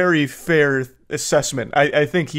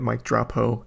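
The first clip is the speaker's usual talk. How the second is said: softer, flat disbelieving repeat; deadpan disbelief; 3 semitones lower, 6 dB quieter than usual. Real, not acted. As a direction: say it in quiet disbelief. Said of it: "This guy just typed out".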